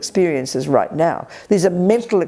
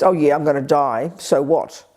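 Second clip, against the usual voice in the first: lower, careless shrug; shrugging indifference; 4 semitones lower than usual. Retold or imitated. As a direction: toss it off like it doesn't matter. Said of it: "Not just".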